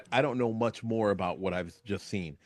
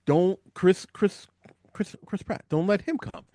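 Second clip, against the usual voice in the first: excited pleading; 8 semitones higher than usual. Real, not acted. Pleading with the filmmakers.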